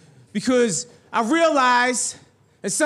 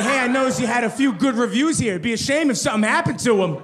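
smiling threat; faster than usual. Retold or imitated. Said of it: "That's some mafia shit".

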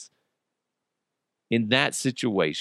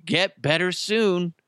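drawn out slowly, savoring each word; relishing a silly phrase; mock card greeting; 6 semitones higher, slower than usual. Host reads the backhanded card greeting, slow and amused.

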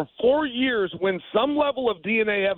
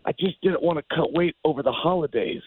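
calm; 4 semitones lower than usual. Retold or imitated. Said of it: "he very calmly says".

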